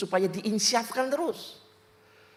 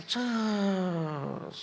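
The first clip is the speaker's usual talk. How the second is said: imitated air escaping a tyre; deflating hiss; 3 dB quieter than usual. Preacher's anger going flat at once, imitated deflating hiss. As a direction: let out a drawn deflation sound. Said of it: "Saya langsung kempes".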